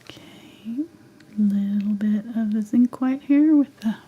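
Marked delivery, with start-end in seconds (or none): none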